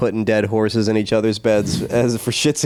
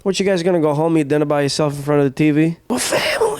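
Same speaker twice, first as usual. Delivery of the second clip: high, peppy mob boss; chirpy mobster pushing team bonding; cheesy mafia boss; 4 semitones higher than usual. Acted.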